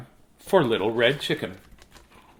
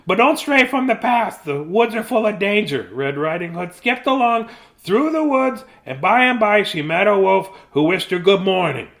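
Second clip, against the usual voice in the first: higher, lively story reading; reading to children; 6 semitones higher, 3 dB louder than usual. Acted. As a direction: tell it like a bedtime tale. Papa reads fairy tale.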